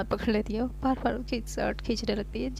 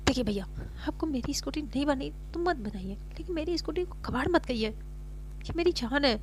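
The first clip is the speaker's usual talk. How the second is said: angry; 4 semitones higher than usual. Acted. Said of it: "तो सारिका गुस्से में आती है".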